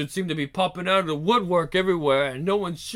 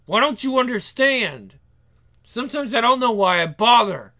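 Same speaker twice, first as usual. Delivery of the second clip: higher, louder exasperation; fed-up, raised-voice complaint; exasperated; 5 semitones higher, 4 dB louder than usual. Acted. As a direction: vent frustration at people who won't listen. Exasperated captive scolding captors.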